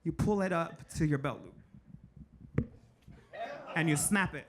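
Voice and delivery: slow, careful step-by-step instruction; a lightly voiced father teaching a trick; instructing dad. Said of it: "So he goes".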